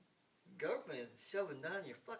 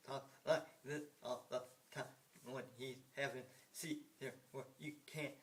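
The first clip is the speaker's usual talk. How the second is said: mumbling impression. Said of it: "there's this guy that talks like this".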